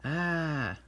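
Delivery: a kid voicing a scared villain; mock panic. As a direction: play-act the villain's fright, stretched out. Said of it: "And Tai Lung's like".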